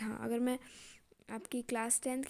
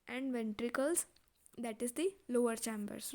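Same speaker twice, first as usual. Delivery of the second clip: measured classroom dictation; teacher dictating notes word by word; slow dictation reading; much slower than usual. Acted. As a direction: read it out slowly for notes. Reading textbook definition.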